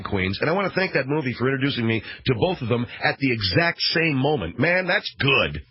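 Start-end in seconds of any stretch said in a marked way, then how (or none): 4.6-5.6 slow savoring. Real, not acted. Savoring his own joke.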